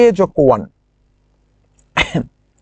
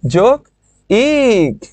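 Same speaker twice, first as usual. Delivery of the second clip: split syllables; much slower than usual. Shown as a demonstration. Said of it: "দেখো তো কি হবে?".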